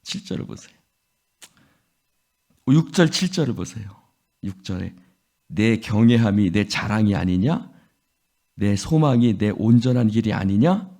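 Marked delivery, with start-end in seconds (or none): 5.5-10.9 sarcastic. Acted. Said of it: "비꼬는 말투라고 그러죠".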